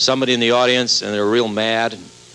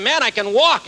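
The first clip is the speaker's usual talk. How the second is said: much higher, astonished delight; amazed joy; 11 semitones higher than usual. Acted. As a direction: cry out like a man suddenly walking. Lame man cured by water.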